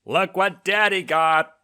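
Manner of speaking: high, slow, loud proud announcement; grinning dad proclaiming. A narrator's reading. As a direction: show off the treat grinning. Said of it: "a wide grin on his face as he proclaimed".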